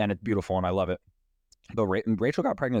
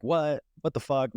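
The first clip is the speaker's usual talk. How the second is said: high-pitched, incredulous reaction; mock disbelief; 6 semitones higher than usual. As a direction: imitate someone scoffing at your news. Imagined dismissive reaction to mom's news.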